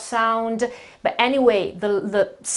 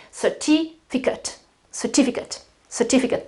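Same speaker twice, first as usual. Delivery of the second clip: "certificate" softly, as "cer-TI-fi-cut"; accent the TI of "certificate", weak "cut" ending; stress on second syllable; 4 dB quieter than usual. Shown as a demonstration. Teacher drills the word for learners, soft "cer-TI-fi-cut". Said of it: "is the accent".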